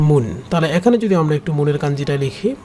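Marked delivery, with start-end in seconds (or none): 0.1-0.2 teacher sounding out মুন as the kanji reading; Japanese reading mon. Shown as a demonstration. Teacher shows students how the kanji is read, clear. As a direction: say মুন clearly as "moon", a demo. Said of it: "যেটাকে উচ্চারণটা বলা হয়".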